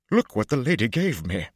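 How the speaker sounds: high, loud delighted showman; light up with sudden glee; brightened. A narrator's reading. Lucca showing Matt the warrant, bright and delighted. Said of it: "then suddenly brightened again".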